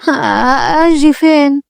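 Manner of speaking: timid, hesitant question; fearful. Acted. Girl called into a strange man's room, fearful. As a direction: ask it haltingly, with a touch of fear. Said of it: "صفية بخوف".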